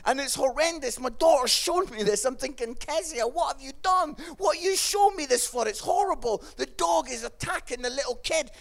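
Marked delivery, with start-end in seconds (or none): 2.7-6.4 higher-pitched mock scolding; shocked parent. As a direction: question the child in dismay, pitched up. Retold shocked scolding of his daughter.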